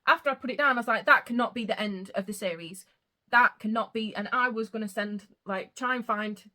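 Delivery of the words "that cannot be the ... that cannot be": loud disbelief. Retold or imitated. Disbelief at the series ending.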